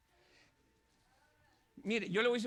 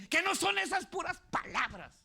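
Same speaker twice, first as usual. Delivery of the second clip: higher, brushing it off; a touch of David's retort; 8 semitones higher than usual. Acted. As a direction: toss it back lightly. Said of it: "viene David y le dice". (David responde con desdén)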